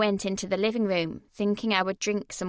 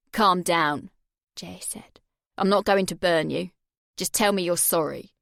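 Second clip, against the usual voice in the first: a lower, louder cold bully; menacing Jay; 3 semitones lower, 3 dB louder than usual. Acted. Jay holding her face over the flame, menacing. Jay voiced through the scene.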